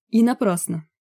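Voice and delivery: dry sarcasm; sarcastic. A narrator's reading. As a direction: needle him. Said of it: "съязвил Лесь".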